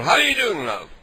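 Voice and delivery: sweetly fake-friendly to the stranger; sugary prank voice. Prank caller's put-on sweet greeting.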